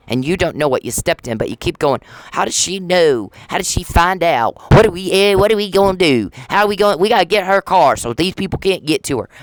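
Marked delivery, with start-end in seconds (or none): 2.3-9.3 high, louder mocking panic; mock panicked stalkers. Mocking the stalkers as they scramble, high and loud. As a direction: ham up the stalkers' frantic scheming.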